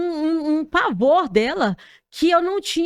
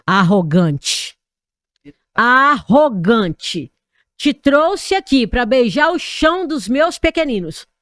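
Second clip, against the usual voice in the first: loud, very slow, commanding divine voice; slow thundering voice of God, much louder; 6 dB louder than usual. Retold or imitated. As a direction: boom it out like the Lord rebuking her. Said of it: "eu ouvi uma voz no meu ouvido".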